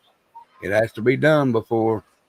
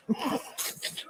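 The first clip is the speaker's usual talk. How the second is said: high, soft wheezy laugh; soft real giggle at the mix-up; 15 dB quieter than usual. Real, not acted. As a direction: laugh quietly and high-pitched. Laughs at Cockney sounding like Courtney.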